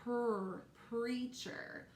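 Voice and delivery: Per split off, then preacher said whole; teacher blending sounds into a word; sounding out the word. Shown as a demonstration. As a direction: build the word from its first sounds. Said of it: "I hear another blend".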